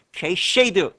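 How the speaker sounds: 게쉐이드 with a "sh" sound replacing "s-k"; altered pronunciation. Shown as a demonstration. Teacher recalling a mnemonic for students, altered 게쉐이드 pronunciation. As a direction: say 게쉐이드, slurring cascade into "ge-shwei-deu". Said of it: "이렇게 읽었던 거 기억하시나요?".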